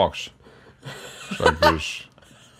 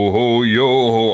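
pirate voice; 4 semitones higher, 6 dB louder, slower than usual. Pretend. Dad playing pirate.

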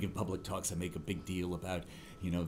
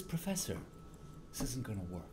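resigned sigh; 8 dB quieter than usual. Retold or imitated. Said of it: "Sad shake of his head".

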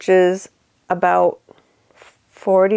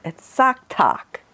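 upstate New York accent; slower than usual. Shown as a demonstration. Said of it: "with my upstate New York accent".

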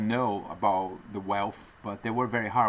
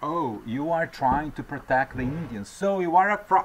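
imitating an accuser, rising to a higher, louder jab; mock the critic, building to a sharp higher accusation; hammed-up accuser, louder at the end; 4 semitones higher, 5 dB louder than usual. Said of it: "somebody's going to say".

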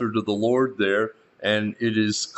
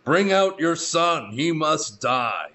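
slow, firm demand; lightly voiced angry townsmen, drawn out; mild demand; 6 semitones higher, slower than usual. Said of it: "the men of the town demanded".

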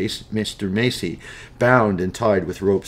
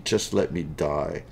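weak plea; 4 semitones lower, 4 dB quieter, slower than usual. Acted. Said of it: "weakly cries".

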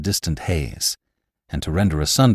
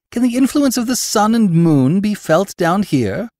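much higher, louder amazed question; cried out; 12 semitones higher, 4 dB louder than usual. A narrator's reading. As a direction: cry out in disbelief. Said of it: "I cried".

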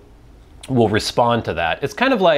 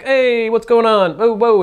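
high, bright playful call; cheerfully distract a small child; playful distraction; 11 semitones higher, 5 dB louder than usual. Retold or imitated. Distracting little brother playfully.

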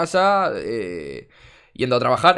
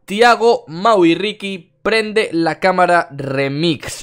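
hyped intro; 6 semitones higher, 5 dB louder, slower than usual. Real, not acted. Hyped intro announcing video.

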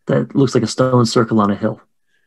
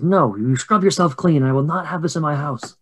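higher-pitched, firm mock scolding; scolding mother; 5 semitones higher than usual. Mary orders crying girls to wash, higher scolding voice. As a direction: lay down the law in a raised pitch. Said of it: "And she says".

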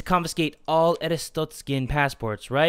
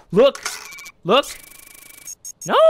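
calling out; 6 semitones higher than usual. Real, not acted. Pointing at a wanted criminal.

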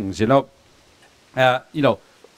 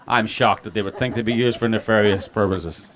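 laughing sarcasm. Real, not acted. Sarcastic remark about Hillary's lawyers.

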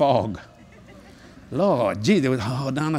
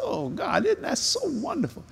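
delighted gush; 11 semitones higher, 5 dB quieter than usual. Retold or imitated. Retelling his reaction to photos.

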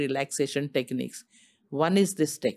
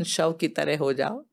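slow guiding; slower than usual. Shown as a demonstration. Explaining shavasana slowly.

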